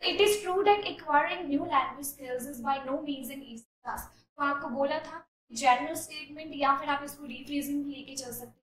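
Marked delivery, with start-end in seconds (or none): 0.0-4.1 slow, deliberate read-aloud of a model answer; measured classroom reading; slow essay reading. Shown as a demonstration. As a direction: read each word out clearly for students.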